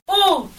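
"oud" in two separate sounds, ou, then d; split into sounds. Shown as a demonstration. Teacher has pupils count sounds, "oud" split in two. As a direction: say "oud" as ou, pause, d. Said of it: "combien de sons on entend".

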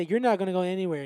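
threatening shout. Acted. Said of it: "you say".

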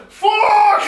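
high laughing yell; laughing shout. Real, not acted. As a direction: burst out shouting through laughter.

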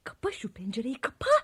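urgent hushed command; angry whisper. Acted. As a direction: whisper it sharply. Hissing at sister by window.

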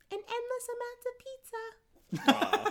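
words breaking into a high laugh; high laughing reading. Real, not acted. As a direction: read it high, laughing through it. Reading card, bursts into laughter.

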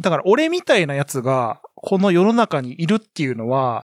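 a light Kansai-dialect read of a boastful line; Kansai dialect quote. Retold or imitated. Retelling Gaasyy's book to the co-host, in mild Kansai dialect. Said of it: "本の語り口が関西弁なんですよ".

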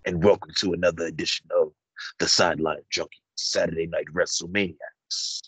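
smooth, seductive host intro; love voice. Acted. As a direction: croon it like a late-night DJ. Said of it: "You putting a love voice on?".

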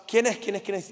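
scared. Retold or imitated. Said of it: "todos asustados".

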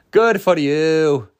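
slow, drawn-out mock-accent impression; sarcastic movie-star rant, badly imitated; Christian Bale. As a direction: stretch it out in a put-on accent. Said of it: "Christian Bale, when he did that rant".

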